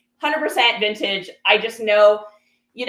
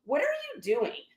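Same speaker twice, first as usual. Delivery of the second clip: softly taken aback, slightly raised pitch; quiet disbelief; 4 semitones higher, 7 dB quieter than usual. Retold or imitated. Shopper to woman going through her bag, quiet disbelief. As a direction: question them under your voice, stunned.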